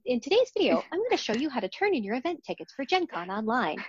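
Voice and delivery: bright how-to video host; IT training video voice. Pretend. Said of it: "in I T training video voice".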